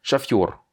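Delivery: "Chafior" stressed on the last syllable, fior. Shown as a demonstration. Teacher reading an example word to a student, stress on final yo. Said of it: "on a accentué le yo".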